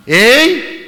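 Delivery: loud, high huff of frustration; acted annoyance. Scolded boy sitting down to study, mock angry outburst. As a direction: burst out like a fed-up kid. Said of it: "열받아".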